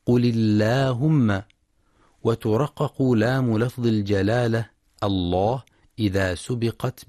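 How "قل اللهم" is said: slow recitation of قل اللهم with a light, thin lam after the kasra; measured recitation with a thin lam in اللهم; thin lam in Allah. Shown as a demonstration. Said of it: "ترقيق لام لفظ الجلالة إن سبقت بكسر".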